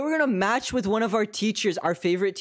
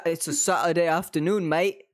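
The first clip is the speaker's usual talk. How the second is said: put-on playful British-New Zealand hybrid accent. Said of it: "I really don't like the New Zealand accent".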